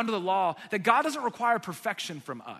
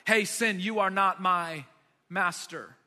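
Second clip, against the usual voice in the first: said out loud; 5 dB louder, slower than usual. Retold or imitated. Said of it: "I've literally said out loud".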